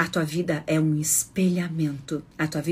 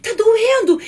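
high, loud wailing plea to the doctor; crying patient; 7 dB louder, slower than usual. Pretend. Patient begging the doctor, loud crying wail. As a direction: whine it out like a patient in pain. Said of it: "Você chega lá chorando".

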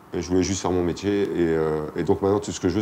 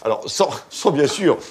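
hammed-up TV shopping host, slightly higher; infomercial; 4 semitones higher, 3 dB louder than usual. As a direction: sell it like a pushy TV pitchman. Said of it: "Imagine que tu es présentateur de téléachat".

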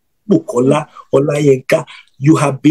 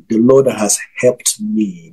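"helped me" drawn out with weight; slow, deliberate stress on "helped me"; emphasis on helped me; 4 semitones lower, slower than usual. Real, not acted. Preacher assuring followers of the Lord's help, emphatic. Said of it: "I say that with emphasis".

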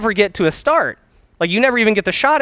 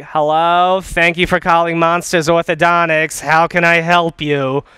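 a hint of a cold, bored phone greeting; mock the grumpy receptionist, slow and flat-toned; unfriendly receptionist. Coach mimics a cold receptionist answering the phone, unfriendly. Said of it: "the least friendly, least warm, least inviting voice".

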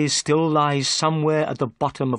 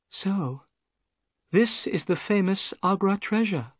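lady's voice; 9 semitones higher than usual. A narrator's reading. Miss Morstan unexcited.

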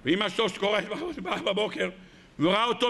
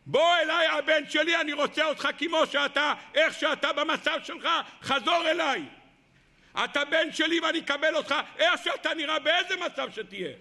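calling cry; 4 semitones higher than usual. Acted. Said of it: "שומע את הצעקה הזאת".

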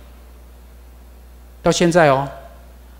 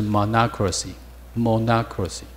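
slow model pronunciation; 6 dB quieter, slower than usual. Shown as a demonstration. Teacher models the new word.

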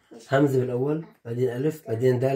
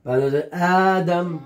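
dictating; 3 semitones higher, slower than usual. Shown as a demonstration. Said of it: "شو بعد جاءتك".

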